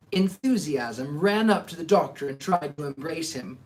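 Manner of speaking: steady storytelling read-aloud; audiobook-style narration; story narration. A narrator's reading. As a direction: read the chapter to the listeners. Reads a book aloud to listeners.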